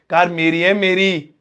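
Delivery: "Car मेरी है, मेरी" with the echoed मेरी punched; stress on मेरी. Shown as a demonstration. Teacher showing students extra force on मेरी. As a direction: lean on मेरी. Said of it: "जोर ज्यादा दिया जा रहा है".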